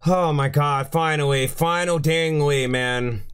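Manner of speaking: slow, worn-out relief; spent relief. Real, not acted. Gamer coming down after the win, spent relief. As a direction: say it drained after all the screaming.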